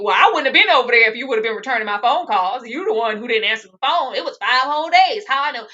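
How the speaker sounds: mock blame-flipping man. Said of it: "try to flip it and blame it".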